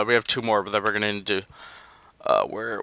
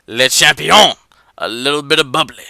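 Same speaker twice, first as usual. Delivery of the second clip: louder, lightly mimicked wrestler promo line; wrestler catchphrase; 2 semitones higher, 7 dB louder than usual. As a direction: toss out the catchphrase like a wrestling champ.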